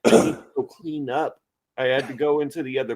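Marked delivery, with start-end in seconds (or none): 0.0-1.4 high, put-on voice well above his own; squeaky mock voice for an excuse; mock silly voice. Telling a friend, in a squeaky mock voice.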